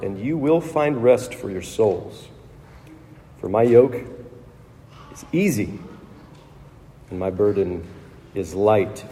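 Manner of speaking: measured Gospel reading to the congregation; scripture reading. Acted. Priest reading the Gospel at Mass, solemn reading. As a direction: read the words of Jesus solemnly. Reads the Gospel passage aloud.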